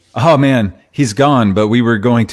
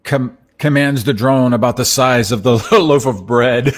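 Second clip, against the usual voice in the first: laughing; 5 semitones higher than usual. Real, not acted. Laughing while reading article.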